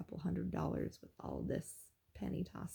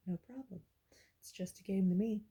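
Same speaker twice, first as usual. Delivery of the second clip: cocky whisper. Retold or imitated. To the angry announcer, a cool, cocky whisper. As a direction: hush it like a smug secret.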